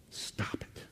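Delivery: soft urgent whisper. Real, not acted. Pastor pleading with guilt-laden listeners, hushed whisper. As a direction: breathe it like a secret plea.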